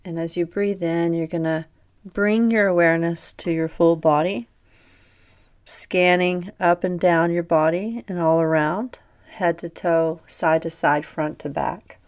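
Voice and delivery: even, unhurried body-scan voice; measured yoga nidra narration with pauses; guided meditation. Real, not acted. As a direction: calmly guide attention through the body. Guides body awareness on breath.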